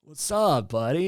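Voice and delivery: lightly hammed-up celebrity impression; a hint of surfer dude; casual dude greeting, lightly impersonated; John Berthoud. Shown as a demonstration. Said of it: "Say it like real John Berthoud".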